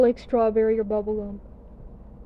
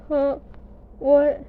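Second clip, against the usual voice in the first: shocked; 3 semitones higher, slower than usual. Retold or imitated. Shocked at root canal news.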